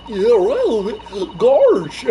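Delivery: high, drawn-out mock imitation; mocking echo. Player echoes the witness's word, high mocking disbelief. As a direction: parrot the word with overblown disbelief.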